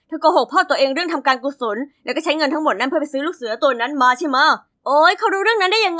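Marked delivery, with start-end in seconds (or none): 0.1-4.4 lightly voiced boyfriend, accusing; boyfriend's accusing voice. Boyfriend accusing girlfriend of lying to her father, lightly voiced. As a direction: call her out on the lie. Boyfriend confronts girl about lie.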